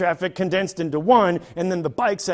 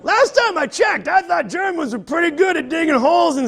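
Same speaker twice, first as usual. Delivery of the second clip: higher, louder sarcastic jab; 10 semitones higher, 5 dB louder than usual. Real, not acted. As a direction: scoff at the excuse. Mocking the German contractors.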